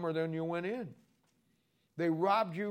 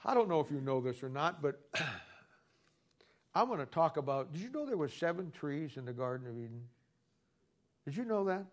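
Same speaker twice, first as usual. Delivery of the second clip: mock preacher opening. Shown as a demonstration. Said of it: "here's how I'd start".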